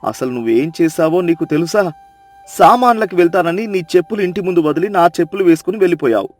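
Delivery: low, fast scolding husband. Acted. Chandranna scolding silly Sita before the crowd, low scolding. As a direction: tell her off for her foolishness. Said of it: "నాలుగు చివాట్లు పెడతాడు".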